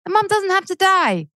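ranting. Real, not acted. Ranting to the host about Disney mums, impassioned. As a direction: let the indignation run away with you. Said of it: "Sorry, I'm ranting".

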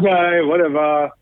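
retold offhand shrug of a reply; dismissive. Brushing off her yelling.

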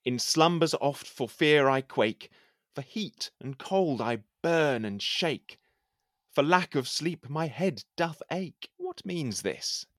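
measured, declaiming poem reading; poem recitation. Acted. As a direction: recite it like a courtly poet. Recites his poem aloud.

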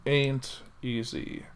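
slow, deliberate broadcaster read; news anchor voice. Real, not acted. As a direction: announce it like the evening news. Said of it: "I know I'm talking in that voice".

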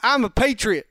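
hammed-up Boston impression; Ben Affleck. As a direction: put on a proud Boston accent. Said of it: "think of Ben Affleck".

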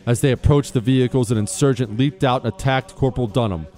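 formal, measured citation reading over music; crisp military citation. Acted. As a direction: read it like an official military honor. Reads a Medal of Honor citation.

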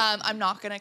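speaking up after being told she is soft. Real, not acted. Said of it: "You have a softer voice than Rose".

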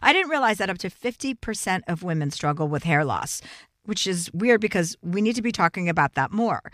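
host reading a hair loss ad. Acted. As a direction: sell it like a podcast ad. Host reads sponsor ad.

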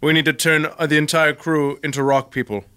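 low, slow scheming villain. Acted. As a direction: savour the evil plan. Villain reveals plan aside.

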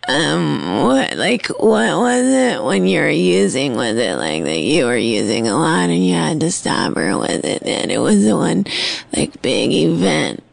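lightly imitating a spaced-out stoner; imitating Bridget. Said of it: "it sound like a good impression of you?".

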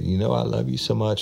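high, teary imitation of her pleading; retold tearful plea; mock crying. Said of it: "She started crying shit again".

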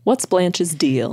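slow announcer-style segment title. Acted. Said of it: "This is our segment".

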